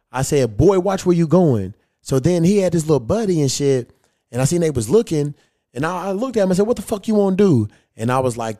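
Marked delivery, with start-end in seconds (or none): 0.6-1.7 stern warning. Retold or imitated. Retold warning, last time. 6.7-7.7 fight challenge. Retold or imitated.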